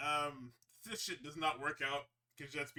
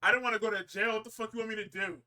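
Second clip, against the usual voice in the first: exasperated outburst; 7 semitones higher, 8 dB louder, faster than usual. Retold or imitated. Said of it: "Mox is like".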